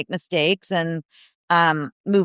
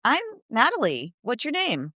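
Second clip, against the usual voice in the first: friendly greeting; 3 semitones higher than usual. Retold or imitated. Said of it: "another thing to go like".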